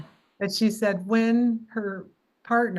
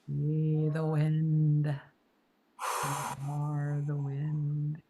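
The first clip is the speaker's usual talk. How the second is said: slow, drawn-out mock French accent; lightly doing Michel's French accent, very slowly; imitating a French accent; 2 semitones lower, 4 dB quieter, much slower than usual. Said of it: "saying it in his French accent".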